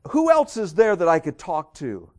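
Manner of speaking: loud, high exasperated question; upset boss. Acted. Boss asks little kid for mommy, loud and upset. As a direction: act a boss losing patience with a child. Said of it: "Boss is really getting upset".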